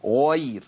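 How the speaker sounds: غير said with pursed rounded lips; wrong lip rounding. Shown as a demonstration. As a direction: show غير with the lips pushed out. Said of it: "مط للشفتين".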